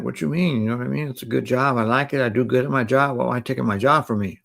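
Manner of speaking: mock upset, voice lifted; retold tripping. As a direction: re-enact pleading to keep a job. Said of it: "So now I'm tripping".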